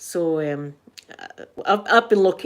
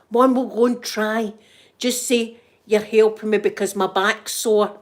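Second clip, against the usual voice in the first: slightly raised voice, retelling; retold loud voice; 2 semitones higher, 3 dB louder than usual. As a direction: mimic a tipsy, too-loud suggestion. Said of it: "Dead loud, dead loud".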